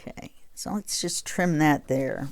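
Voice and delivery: talking around a pencil in mouth. Real, not acted. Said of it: "I've put my pencil in my mouth".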